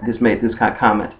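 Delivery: normal talking voice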